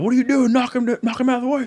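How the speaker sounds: very high frantic screaming yell. Driver retells his spotter screaming at him during the race, retelling a scream. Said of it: "my spotter was screaming at me too".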